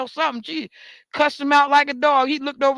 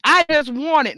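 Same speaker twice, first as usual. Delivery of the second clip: mocking whine; 3 semitones higher than usual. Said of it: "because you just want it".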